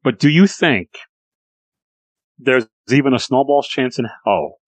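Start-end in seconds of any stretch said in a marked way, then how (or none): 2.4-4.6 a crack slips into the voice mid-question. Real, not acted. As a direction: voice cracks on snowball's. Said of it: "Sorry, my voice cracked".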